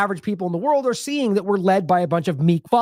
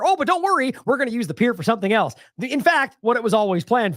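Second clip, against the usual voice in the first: sarcastic, much higher, sing-song fake comfort; mock reassurance; 4 semitones higher than usual. Commentator mocking the government's excuse, in sarcastic sing-song. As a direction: mimic a smug official soothing the public.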